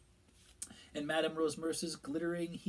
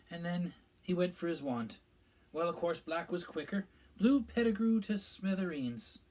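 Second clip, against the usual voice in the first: a higher, louder official's voice; Minister Fudge; 5 semitones higher, 5 dB louder than usual. A narrator's reading. Minister explaining events to the pub gathering, self-important. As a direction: voice the pompous minister telling the tale.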